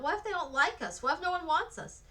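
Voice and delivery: high, loud anxious questions; called out. A narrator's reading. Children fearing nobody wants them, calling out high. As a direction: call out worriedly from the crowd. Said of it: "Voices called out".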